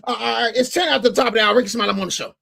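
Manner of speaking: stammers and restarts on every word; lightly voiced stammering read; stumbling bad reader. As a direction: imitate a host choking on his script. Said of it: "That's how he sounded".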